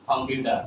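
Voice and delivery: "কম্পিউটার" with D in place of T. Shown as a demonstration. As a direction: say "কম্পিউটার" as "com-pyu-der". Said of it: "কি বলবো?". ("কম্পিউটার"-এর ট হবে ড)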